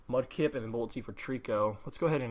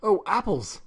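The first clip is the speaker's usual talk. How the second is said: delighted; 7 semitones higher, 4 dB louder, slower than usual. Acted. Character delighted by offered food.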